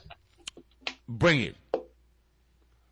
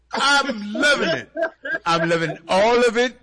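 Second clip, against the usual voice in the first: laughing; 3 semitones higher than usual. Real, not acted. Laughing at glitches.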